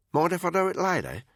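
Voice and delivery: strong Australian woman's voice; Australian accent. A narrator's reading. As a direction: play it Aussie and cheeky. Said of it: "very pronounced Australian accent".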